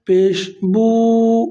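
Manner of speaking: بو held long for two counts; stretched vowel. Shown as a demonstration. Teacher showing students how بو is stretched, held long. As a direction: draw out the long vowel in بو slowly. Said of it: "کھینچ کے پڑھیں گے".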